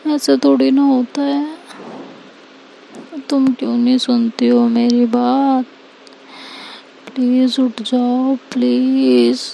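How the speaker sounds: lightly voiced girlfriend begging her to wake; pleading Anika. Anika at Seerat's bedside, begging her to wake up, mildly tearful plea.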